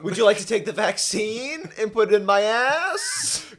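giggling as a creepy flirt; laughing mock come-on. Mocking governor's come-on.

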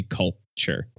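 "culture" broken by a pause after "cul"; split word for pun. Shown as a demonstration. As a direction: say "culture" as cult, pause, then "ture". Cult joke on the word culture.

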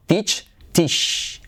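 teach, stretch the i; teach, long ee sound. Shown as a demonstration. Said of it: "Teach es con I".

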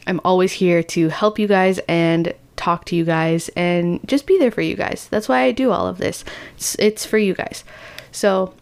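sniffly head-cold voice; talking through a stuffy nose. Real, not acted. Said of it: "my sniffly, stuffy voice".

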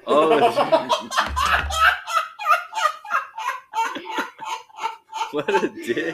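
high cackling laugh into words; laughing while speaking; laughing hard. Real, not acted. Laughing at dog prank.

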